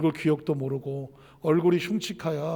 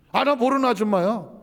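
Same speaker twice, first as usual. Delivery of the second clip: dismissive denial; 5 semitones higher, 4 dB louder than usual. Retold or imitated. Daughter denies her mother.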